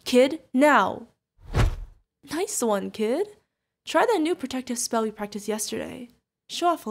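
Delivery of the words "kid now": sharp, loud order; urgent command. Acted. Guardian orders the kid mid-fight, urgent command. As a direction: bark it out as an order.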